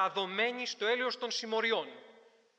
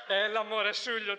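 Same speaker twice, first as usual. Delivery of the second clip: louder, insistent "Έλα, μωρέ" to calm him; louder, pleading "Έλα, μωρέ, Σούλιο"; firmer brush-off; 2 semitones higher, 4 dB louder than usual. Retold or imitated. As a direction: push back harder on the same words. Repeated more forcefully.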